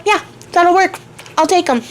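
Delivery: chipper acceptance. Retold or imitated. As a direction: snap up the offer like a great bargain. Tatterhood cheerfully accepting the deal.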